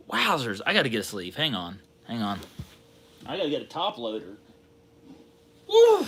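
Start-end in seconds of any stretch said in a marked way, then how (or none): 5.7-6.0 very high whoop of joy; celebratory woo. Real, not acted. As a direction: let out a victory whoop. Celebrates the pull.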